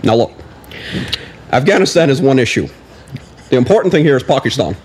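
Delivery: lightly imitated president at a press conference; measured presidential answer with deliberate pauses; Obama. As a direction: do a hint of a statesman fielding questions. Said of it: "then you can do an Obama".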